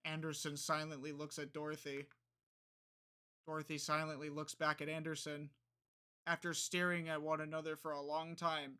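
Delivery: even, measured story reading; story narration. A narrator's reading. Player reads out the silent reunion scene, measured narration.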